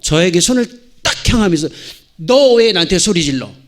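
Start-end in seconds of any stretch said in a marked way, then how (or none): 2.2-3.5 loud, mildly acted child's protest; retold small boy's reproach; indignant little son. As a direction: push back at dad like an affronted toddler. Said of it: "막 가다가 딱 돌아서서".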